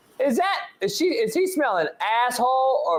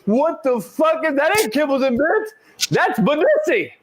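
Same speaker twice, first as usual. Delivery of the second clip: voicing the dog; 2 semitones higher than usual. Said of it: "that dog is like".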